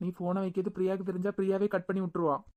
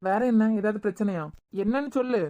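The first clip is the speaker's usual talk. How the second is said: anxious demand; 3 semitones higher, 5 dB louder than usual. Real, not acted. Husband pressing his wife over the phone, loud and anxious. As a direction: insist she tell you now.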